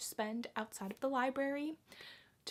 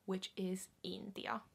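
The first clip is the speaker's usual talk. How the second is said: whispered; 3 semitones lower, 6 dB quieter than usual. Shown as a demonstration. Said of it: "repeating word".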